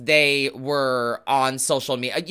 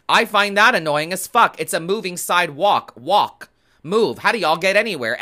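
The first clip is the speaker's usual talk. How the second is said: annoyed rant; 2 semitones higher, 4 dB louder than usual. Real, not acted. Ranting about moving sidewalks.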